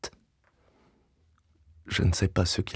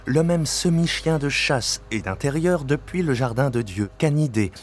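agitated outburst; 6 semitones higher than usual. Acted. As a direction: burst out, barely holding it together. Narrator erupts over the overturned bowl.

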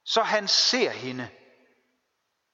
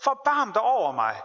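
crying out; 5 semitones higher than usual. Retold or imitated. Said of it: "og råber".

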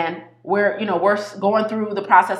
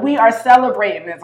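insisting; 3 semitones higher, 5 dB louder than usual. Retold or imitated. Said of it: "putting her foot down".

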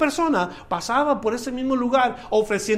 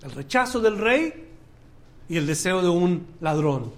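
ordinary delivery

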